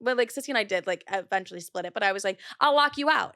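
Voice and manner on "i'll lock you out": higher, louder mock threat; hammed-up warning. Threatening sister with the Airbnb, mock angry.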